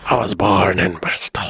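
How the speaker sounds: unvoiced Bristol accent imitation; whispered Bristol accent. Echoing Doreen from the clip, in a whispered Bristol accent. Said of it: "It's fun to talk like that".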